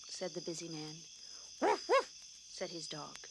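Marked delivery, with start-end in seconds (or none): 1.6-2.1 loud high woof woof. A narrator's reading. Narrator voicing the dog, loud high barks. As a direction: bark like a little dog.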